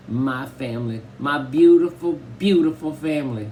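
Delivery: a loud, teary Southern welcome; Southern accent. Acted. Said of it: "except with that Southern style accent".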